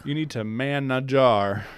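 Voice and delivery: slow mock Southern drawl; Southern accent. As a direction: draw the words out, Southern style. Joins in the Southern accent game.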